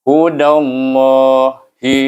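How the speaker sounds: Hudallahi, slow recited syllables; hudallahi drawn out. Shown as a demonstration. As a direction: stretch out Hudallahi with a thick lam. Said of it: "Jadi kita baca".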